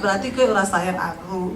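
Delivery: tiruan rajukan, lebih rendah; suami merajuk. Retold or imitated. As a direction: merajuk ala suami, setengah bercanda. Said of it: "Tambah gondok lagi". (suami ngambek pada istri, ditiru rendah merajuk)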